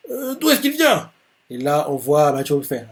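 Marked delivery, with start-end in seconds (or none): 0.1-1.1 puzzled Takakura. Acted. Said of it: "Takakura fait".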